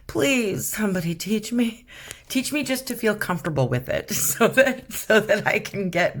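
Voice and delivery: high-pitched, light-hearted plea; playful pleading. Real, not acted. Painter asking viewers to teach her faces, playful pleading. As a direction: beg for help, half joking.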